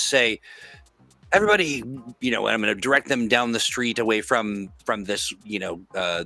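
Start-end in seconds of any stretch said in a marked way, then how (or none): 1.3-1.8 high, loud heroic call; rally the crowd like a hero; bold heroic voice. Acted. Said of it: "in my most heroic voice".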